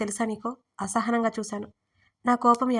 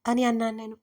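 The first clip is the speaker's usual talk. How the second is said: ordinary delivery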